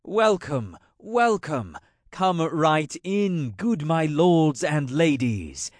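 a hint of a booming genial king; hearty welcome. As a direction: throw the doors wide with the voice. Double greets visitors, arms open.

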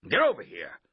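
loud coach's command; forceful sideline bellow; shouted. A narrator's reading. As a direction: order a player over at a yell. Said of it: "Coach shouted".

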